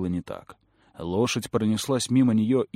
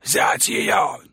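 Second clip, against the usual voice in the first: much higher, weak squeaky yell; squeaky shout; 12 semitones higher, 4 dB louder than usual. Acted. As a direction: shriek the order in panic. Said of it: "закричал главный демон ... слабый и писклявый".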